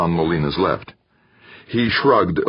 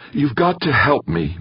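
trembling voice; 10 semitones higher than usual. A narrator's reading. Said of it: "his voice trembling slightly".

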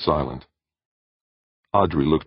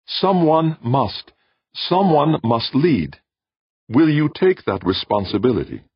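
high, measured voice of an alien being; 12 semitones higher, 5 dB louder than usual. Acted. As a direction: speak as a calm cosmic presence. Alien voice urges Jordan.

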